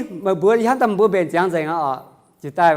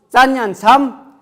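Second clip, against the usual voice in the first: very slow loud model; 6 semitones higher, 8 dB louder, much slower than usual. Shown as a demonstration. Teacher modelling a phrase.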